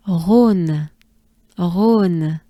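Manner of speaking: Rhône with a throaty R and long closed O; Rhône pushed out on a breath, ending on a clear n; slow model of Rhône, "rohn" with French R. Shown as a demonstration. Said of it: "Just a breath".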